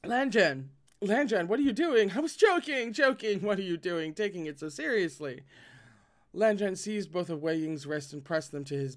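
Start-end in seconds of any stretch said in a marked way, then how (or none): 0.0-5.4 loud, high, panicked protest; struggling under him, shouting he was joking; alarmed protest. Acted. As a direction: yelp it out as you're pinned down. Pinned down, protesting loudly.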